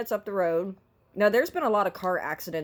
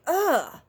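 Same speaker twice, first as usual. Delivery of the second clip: disgusted groan; 7 semitones higher than usual. Retold or imitated. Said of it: "And I'm like".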